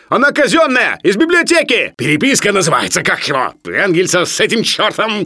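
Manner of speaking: high, loud, frantic plea; desperate protest. A narrator's reading. Sharikov tries to save the library book, desperate. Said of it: "отчаянно воскликнул Шариков".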